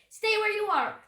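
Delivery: loud, high-pitched shout; shouted warning. A narrator's reading. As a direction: call out an urgent order to stay back. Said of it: "Jack shouted".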